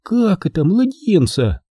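high, slow, aghast question; aghast and drawn out; shocked gasp. A narrator's reading. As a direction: ask it as an alarmed mother. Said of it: "Мама ахнула".

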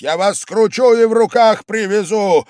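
loud, high, furious yell. A narrator's reading. Host yells a threat at the drunk guest. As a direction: bellow the threat. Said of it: "завопил он опять".

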